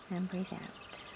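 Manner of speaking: hushed guidance to let the breath go; meditative exhale cue. Real, not acted. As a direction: softly let the phrase sink.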